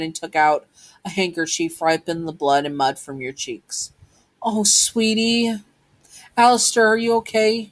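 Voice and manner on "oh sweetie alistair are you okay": high, tender motherly voice; concerned mother. Acted. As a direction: fuss gently over a hurt child, pitched up. Mother comforts hurt children.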